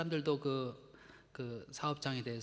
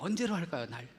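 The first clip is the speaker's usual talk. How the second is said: playful comeback. Shown as a demonstration. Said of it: "이렇게 하라 그랬어요".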